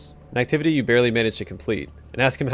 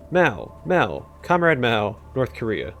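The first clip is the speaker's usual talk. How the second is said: mild mock yell, slowing on the repeated Mao; a hammed-up but lightly voiced fit, fading at the end; hysterical scream; slower than usual. Narrated clerk suddenly yells at the player, mild mock scream. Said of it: "screams hysterically".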